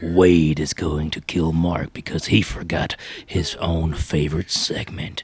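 booming ringmaster announcement. Acted. Announcing a segment like a showman.

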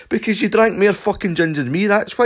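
high, loud ranting accusation; furious accusation. Retold or imitated. Shouting at Stumpy about the puddle on the carpet, high and loud. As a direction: rant at him, insisting. Arguing with friend.

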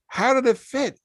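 a high mock-sweet lady voice; sweet question. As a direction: lift it up like a doting friend. Voicing Leah asking.

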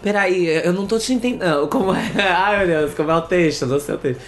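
put-on Rio accent. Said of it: "Tu gosta do sotaque carioca? Pois faz aí".

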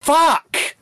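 high, slow furious yell; a frustrated interrogator losing it, shouting. Acted. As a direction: roar at him to stop screaming. Character yells at screaming prisoner.

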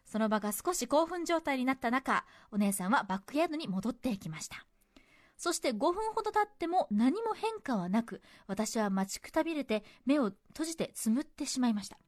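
measured story-reading delivery; letter reading. Acted. Radio host reading a cinema memory to listeners, narrated. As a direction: read the letter out as a tidy narrative.

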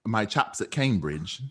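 slow mock British accent. Friends trying accents across the pond, British accent. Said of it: "take it across the pond".

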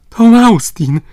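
high, loud joyful call; boy recognizing a friend aboard; joyful shout. Acted. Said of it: "zawołał Robert".

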